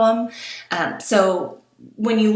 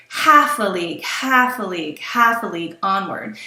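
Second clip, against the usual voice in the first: "half a league" beaten out as galloping dactyls; chant-like meter on "half a league onward"; horses' hooves rhythm. Shown as a demonstration. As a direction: stress HALF, then two lighter falling beats in "half a league". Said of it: "it sounds like horses' hooves".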